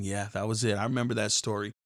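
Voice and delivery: understated tender recollection; quiet reminiscing. Retold or imitated. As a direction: murmur like a grandmother looking down from heaven. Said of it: "looking down, going".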